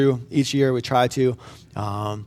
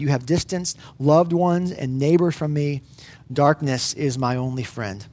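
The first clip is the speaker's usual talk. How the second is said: scripture reading. Acted. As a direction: read the psalm like a heavy prayer. Reads Psalm 88 aloud.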